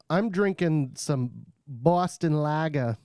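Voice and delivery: bad Boston accent, slow; a weak stab at a Boston accent. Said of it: "That's my best Boston accent".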